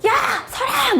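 high-pitched retold shout; guard's shouted halt. Border guard spots runaway in the river, retold shout. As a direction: call out sharply as a guard imitation.

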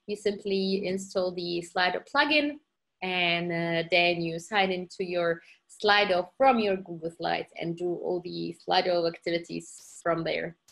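slightly slowed, step-by-step explanation. Real, not acted. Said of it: "repeat it once more slowly".

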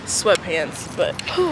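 talking through hiccups; words broken by hiccups. Real, not acted. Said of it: "I also have the hiccups".

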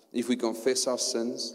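If we confess with a lift on we; stress on if. Shown as a demonstration. Reading scripture, marking the condition. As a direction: lean into the if. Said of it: "listen to this".

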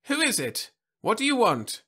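put-on high, wary old lady voice; cautious old woman on the phone. A narrator's reading. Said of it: "spoke warily into the mouthpiece".

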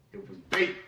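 quiet echo. Real, not acted. Repeating his verdict on the diss track to viewers, quiet aside. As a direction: drop it to a low aside, almost to himself.

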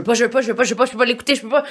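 mock whiny child refusing, rising high; childish tantrum. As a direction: act out a little kid's tantrum, half joking. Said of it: "comme si je suis un enfant".

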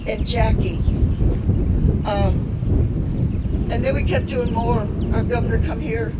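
loud, impassioned outburst; pushing the words out with feeling; emotional. Real, not acted. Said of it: "it is very emotional".

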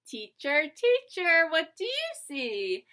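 singsong picture book reading; lilting read-aloud for little kids; reading to a toddler. Acted.

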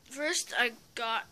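hushed aside; whispering. Real, not acted. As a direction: drop to a whisper.

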